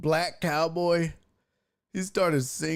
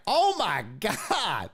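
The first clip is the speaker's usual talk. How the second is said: shocked gasp; 3 semitones higher, slower than usual. Retold or imitated. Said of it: "And Keisha was like".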